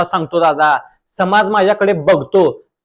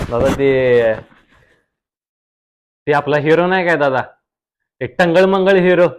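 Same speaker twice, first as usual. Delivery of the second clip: reel star guest voice; 3 semitones lower than usual. Acted. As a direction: play the smug village reel star. (रील स्टारचा आवाज)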